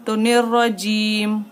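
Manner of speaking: निर्रजीम stopped on the म with no final vowel; paused ending. Shown as a demonstration. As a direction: cut निर्रजीम off sharply at the म. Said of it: "ऐसे हो जाएगा".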